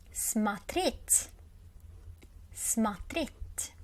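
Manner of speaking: "Смотреть" as sma-TRET, second syllable stressed; weak A in "Смотреть", stress the end. Shown as a demonstration. Teacher modelling the verb to watch, "Смотреть" said sma-TRET. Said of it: "We read O like R".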